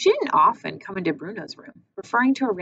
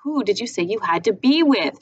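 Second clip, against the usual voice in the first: shouted; 3 semitones higher, 5 dB louder than usual. Acted. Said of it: "she shouted".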